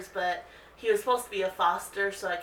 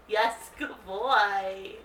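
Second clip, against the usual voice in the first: slow praise; much slower than usual. Real, not acted. Owner praising her dog Marley, slow drawn praise.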